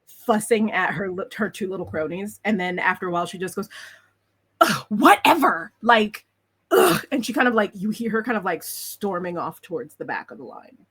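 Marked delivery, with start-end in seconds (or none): 4.6-7.0 exasperated ugh. Acted. Rival gives up, storms off.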